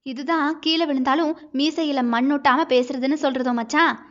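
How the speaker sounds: lightly mocking question; a touch of playful sarcasm; teasing. Wife needling husband over his proud apology, mildly mocking. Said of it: "நக்கலாகவே கேட்டாள்".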